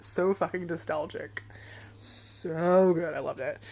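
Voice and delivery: breathy whispered aside; hushed, savoring. Real, not acted. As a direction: whisper it like a guilty pleasure. Savoring the drink.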